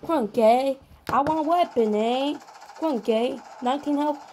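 light, badly faked Australian; bad Australian accent. Gamer trying out foreign acting mid-game, bad Australian accent. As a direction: have a poor go at an Australian accent. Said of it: "I should never try Australian".

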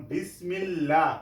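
বিসমিল্লাহ with a thin L and open "laa"; light L. Shown as a demonstration. Teacher gives an example of L after zer, light L. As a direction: keep the L of বিসমিল্লাহ light, drawn out. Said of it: "পাতলা করে".

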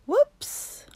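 high laughing whoops. Acted. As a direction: laugh it out, amused. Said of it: "laughed the birds".

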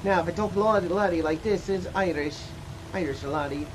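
soft, put-on Irish lilt; playful Irish brogue, kept quiet; Irish accent. Shown as a demonstration. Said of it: "That's Irish accent right there".

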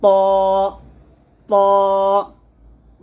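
heavy, ringing "ত", separated by pauses; thick. Shown as a demonstration. Teacher drilling students, thick "ত" repeated with pauses. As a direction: thicken and resonate each "ত". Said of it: "তটা মোটা হবে".

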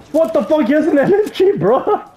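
shouting. Real, not acted. Enemy has a machine gun.

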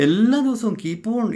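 എല്ലാ ദിവസവും drawn out slowly, high and loud; emphatic stress. Real, not acted. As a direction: lean hard on എല്ലാ ദിവസവും, stretching each word. Insisting it happened daily. (എല്ലാ ദിവസവും എന്ന് ഉറക്കെ, പതുക്കെ ഊന്നി പറയുക)

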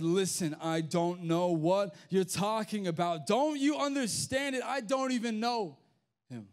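adamant denial, rising high in pitch. Acted. Peter denying Jesus to his accuser, adamant. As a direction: start firm, then climb in exasperated protest. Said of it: "But Peter was adamant".

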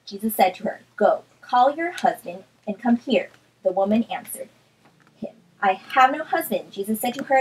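brisk, animated scripture reading; Bible reading aloud. Acted. Reading John four in a quick Bible study, animated read-aloud. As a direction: read the chapter out expressively.

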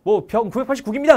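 loud, high recruit's report; military reporting shout. Acted. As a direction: snap to attention and report. Recruit reporting to senior marine. (군기 든 관등성명 외침)

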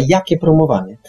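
ordinary talk

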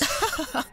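a quick amused laugh, light and brief; short laugh. Acted. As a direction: laugh once, impressed by the trick. Noah laughs at clever plan.

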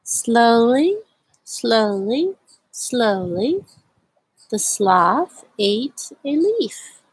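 slow, drawn-out story reading; slow read-aloud. A narrator's reading. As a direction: read at a sloth's pace. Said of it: "I like to read this book very slowly".

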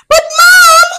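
high, loud whiny protest; upset scream. Acted. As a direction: wail it at mom, very upset. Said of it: "screamed Charlie again, very upset".

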